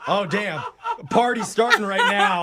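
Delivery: hyped-up party shout; excited shout. Real, not acted. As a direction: yell it like the party's starting. Hyping the alphabet trick.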